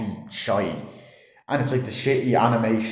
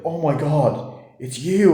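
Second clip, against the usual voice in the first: mock fangirl squeal; 6 semitones higher, 4 dB louder, slower than usual. Fan gushing on meeting YouTuber.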